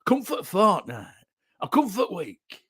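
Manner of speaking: lightly put-on West Yorkshire accent; a touch of broad West Yorkshire. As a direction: imitate West Yorkshire day-trippers. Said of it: "people from West Yorkshire".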